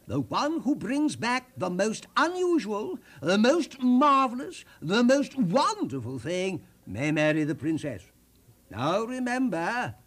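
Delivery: a hint of a royal decree to the princes; king addressing three princes, mildly booming; king's proclamation. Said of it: "The king told the three princes this".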